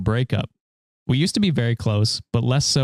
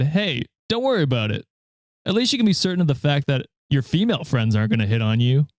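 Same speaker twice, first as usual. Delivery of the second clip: frat bro; faster than usual. Retold or imitated. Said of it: "pretentious frat boy voice".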